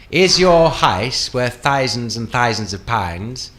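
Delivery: slow, extra-posh British, ow turned to eye; hammed-up upper-class British, drawn out; posher British accent. Shown as a demonstration. Guest demonstrates getting posher, very posh British accent. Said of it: "if you want to get posher".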